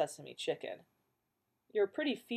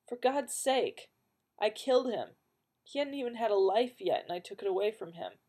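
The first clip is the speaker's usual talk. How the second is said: anguished outburst; 4 semitones higher than usual. Acted.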